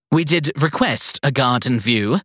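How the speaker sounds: put-on high, imperious old lady; bossy elderly matron giving orders; prissy strict schoolteacher voice. Evelyn demands.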